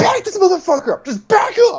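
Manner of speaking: put-on scream, pitched way up, high and shrill. Recounting sitting top gunner in a game, retelling a scream at the driver. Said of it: "and I just screamed".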